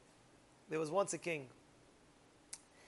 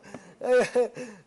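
short loud laugh; 4 semitones higher, 8 dB louder than usual. Real, not acted. Speaker amused by the king's excesses, loud laugh. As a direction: laugh out loud mid-story. Amused by his own list.

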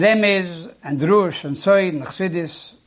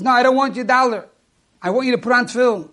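put-on insistent kid; 3 semitones higher, much faster than usual.

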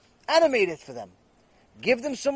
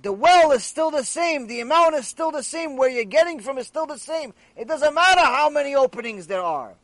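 raised, emphatic insistence; exasperated explaining; 4 semitones higher, 5 dB louder than usual. Retold or imitated. Friend correcting the foolish beer seller, exasperated and emphatic. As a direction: hammer each repetition home, pitched up. Friend hammers point into the fool.

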